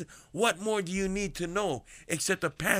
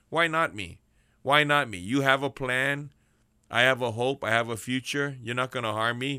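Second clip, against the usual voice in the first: confident prayer. Shown as a demonstration. Preacher modeling a prisoner's bold prayer, confident. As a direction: claim it with faith. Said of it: "say to Daddy up in heaven".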